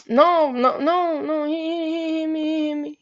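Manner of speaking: high-pitched, tumbling stammer; mock-frantic repeated pleading; flustered protest. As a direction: imitate her panicking under questioning. Girl flustered under questioning.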